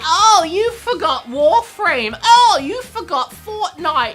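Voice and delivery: high, slow whiny commenter voice; mocking commenter. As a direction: whine it like a know-it-all commenter. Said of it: "being like".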